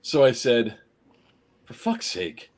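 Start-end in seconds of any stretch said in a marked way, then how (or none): 1.7-2.5 softly muttered curse; really low. Retold or imitated. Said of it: "just like that, just really low".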